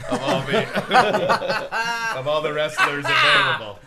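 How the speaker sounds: cracking up mid-sentence; laughing through the words. Real, not acted. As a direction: break up laughing while reading. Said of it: "your Vince McMahon laugh".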